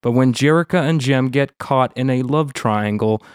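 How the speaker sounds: upbeat podcast intro read; announcer voice. Acted. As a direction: read it like a radio host.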